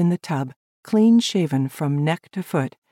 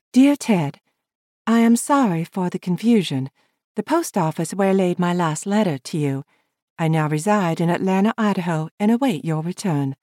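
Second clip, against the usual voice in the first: higher woman's voice, formal; Lavina reading her letter; 3 semitones higher than usual. Acted. Lavina reading her reply to Ted, higher and formal. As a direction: read a polite letter aloud.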